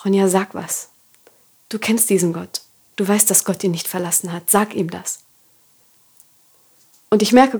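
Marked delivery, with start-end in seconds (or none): 0.0-5.2 softer, hushed inner voice of God. Retold or imitated. Inner voice of God urging Ronja, softly spoken. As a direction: speak it gently like a quiet voice inside. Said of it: "als würde eine leise Stimme zu mir sagen".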